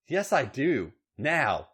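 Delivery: impatient snarl rising high; acted demanding snarl. A narrator's reading. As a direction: snarl the demand, pitch climbing. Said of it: "Becky snarled".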